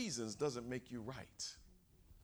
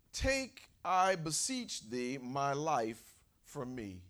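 melodramatic; 6 dB louder, slower than usual. Pretend. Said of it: "A bit melodramatic".

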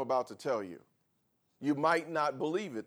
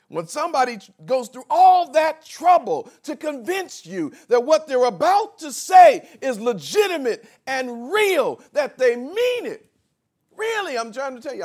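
loud, higher, driving emphasis; preaching shout; 11 semitones higher, 13 dB louder than usual. Acted. Pastor urging the congregation, loud preaching. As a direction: pound the point home.

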